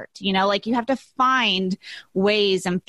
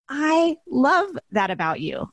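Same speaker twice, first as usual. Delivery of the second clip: higher, slow imitation of a tender reply; retold loving reassurance; 6 semitones higher, slower than usual. Husband accepting his crying partner's emotional side, retold tenderly. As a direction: draw it out as a partner's loving answer.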